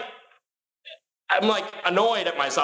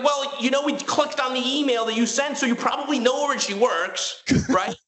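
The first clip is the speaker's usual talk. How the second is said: raised, pointed sarcastic voice; incredulous retort; 9 semitones higher than usual. Retold or imitated. Retelling asking the banker why he needs her workplace, sarcastic. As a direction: needle them with mock disbelief. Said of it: "It's like".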